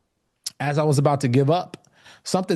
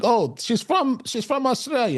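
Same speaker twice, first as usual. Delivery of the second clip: a much higher, hammed-up Australian accent that drifts toward Italian; self-mocking bad Australian accent, pitched way up; botched Australian accent; 12 semitones higher than usual. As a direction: overdo the Australian accent until it sounds Italian. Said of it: "I'll be quoting Italian".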